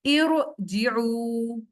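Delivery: slow, drawn-out tajweed recitation; Quran recitation. Shown as a demonstration. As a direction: recite each syllable slowly with heavy r. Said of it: "देखिए कैसे होगा". (धीमी तिलावत)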